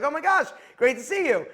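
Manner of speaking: retold gushing hello; excited greeting. Friend greets him excitedly.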